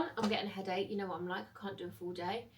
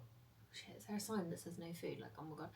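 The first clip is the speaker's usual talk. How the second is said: retold panic; 5 semitones lower, 16 dB quieter than usual. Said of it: "And I actually shit myself".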